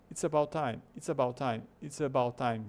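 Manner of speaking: ABOUT with a weak "uh" start, linked to IT'S; "it's uh-BOUT time", first vowel reduced; natural schwa. Shown as a demonstration. Teacher drilling the natural phrase, schwa in ABOUT. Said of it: "Eles falam about".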